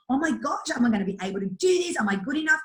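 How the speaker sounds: teacher panicking before teaching a course; panicked self-talk. Retold or imitated. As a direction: rattle off the doubts in a hurry.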